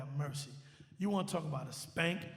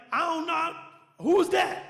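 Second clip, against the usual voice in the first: tag; 8 semitones higher, 6 dB louder than usual. Retold or imitated. Retells panicked answer to friend.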